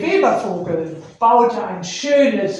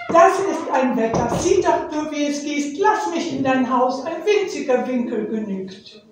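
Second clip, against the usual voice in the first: pleading little bird; 4 semitones higher than usual. Acted. Nektarvogel bettelt erneut.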